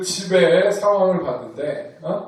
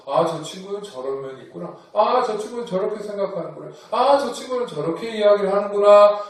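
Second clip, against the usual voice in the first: accepting, understanding tone; faster than usual. Shown as a demonstration. Teacher models the accepting way to think. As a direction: model the open-minded reply. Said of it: "그것이 아니고".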